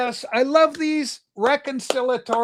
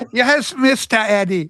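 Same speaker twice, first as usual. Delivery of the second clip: mock deferential reply; 4 dB louder than usual. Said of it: "Remember that?".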